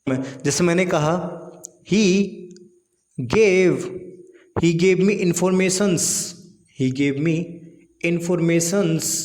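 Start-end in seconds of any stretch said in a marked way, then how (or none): 1.9-9.1 drawn out, very slow informations; slow wrong example. Shown as a demonstration. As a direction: read the wrong sentence very slowly. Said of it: "नहीं जी, गलत है बिल्कुल". (गलत वाक्य, informations बहुत धीरे खींचकर)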